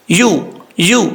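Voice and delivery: یو said slowly and softly, no harsh ی; soft ya demo. Shown as a demonstration. Teacher shows the soft ya sound, slow careful demo. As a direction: ease gently into یو. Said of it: "normal طریقے سے پڑھنا ہے".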